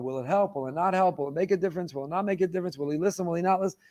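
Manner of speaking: ordinary talk, nothing marked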